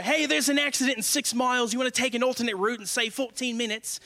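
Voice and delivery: lightly imitated Australian navigation voice; mock Australian voice assistant; Australian Siri. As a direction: put on a chipper Australian accent for the satnav. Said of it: "Siri in an Australian voice".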